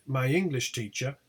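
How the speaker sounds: ENGLISH stressed, teacher lighter. Shown as a demonstration. Teacher repeating the compound example, stress on ENGLISH. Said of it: "compounds are generally stressed on the first element".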